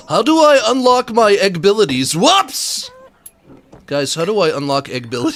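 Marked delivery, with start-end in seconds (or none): 0.1-2.9 loud, high, excited question. Real, not acted. Excited question about egg abilities.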